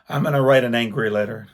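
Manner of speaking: a touch of fast, mock anger; imitating mad wife. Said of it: "she's just mad".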